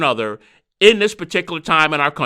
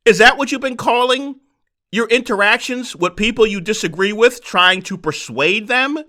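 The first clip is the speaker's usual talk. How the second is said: laughing disbelief; 3 semitones higher than usual. Retold or imitated. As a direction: chuckle while asking it. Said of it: "I had to chuckle to myself and".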